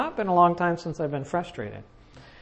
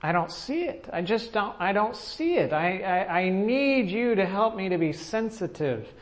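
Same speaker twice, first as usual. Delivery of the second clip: retold prayer. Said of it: "praying to the Lord and saying".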